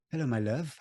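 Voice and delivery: light Gloucester greeting; a hint of Gloucester accent. Shown as a demonstration. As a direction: try a friendly Gloucester hello. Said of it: "that's my Gloucester as well".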